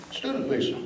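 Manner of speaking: breathy, high mocking echo of "Student visa"; sarcastic whisper. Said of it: "sarcastic echo of their claim".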